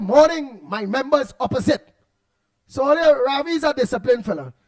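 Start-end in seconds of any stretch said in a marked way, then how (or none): 0.0-1.9 mock parliamentary greeting. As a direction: greet the house like a politician, a bit grand. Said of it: "He said".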